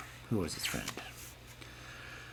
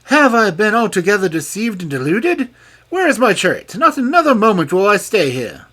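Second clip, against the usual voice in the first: much higher, louder furious king; 11 semitones higher, 10 dB louder than usual. A narrator's reading. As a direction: storm off in anger. King discovers the deceit.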